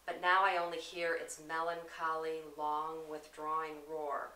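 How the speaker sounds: weighted quote, slowing on "long withdrawing roar"; drawn-out verse. Shown as a demonstration. Showing how the line resists speed, drawn-out reading.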